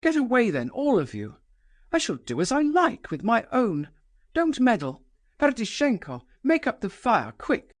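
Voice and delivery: a proud woman daring the room, pitched high; mock the guests with scornful command; Nastasia's defiant voice. Nastasia taunting the guests over burning money, high and scornful.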